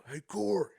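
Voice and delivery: hammed-up redneck calling out for bait. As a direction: rattle off made-up bait names like a redneck. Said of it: "he might say".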